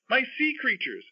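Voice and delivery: very high mock shriek; Levi's shriek. A narrator's reading. Grandfather reading another child's alarm from his book, mock shriek. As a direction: pitch it way up in storybook alarm. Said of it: "And Levi shrieks".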